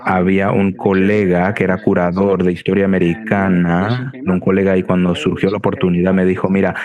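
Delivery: Spanish spoken with an American accent; non-native Spanish, American accent. Real, not acted. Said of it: "mi español académico no es suficientemente fluido".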